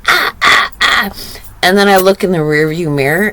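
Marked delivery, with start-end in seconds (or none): 0.1-1.1 high breathy ah ah ah echoing the daughter; mock child noises. Mother imitating daughter's noises in the car, playful. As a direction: copy the toddler's sounds playfully. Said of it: "I'm like".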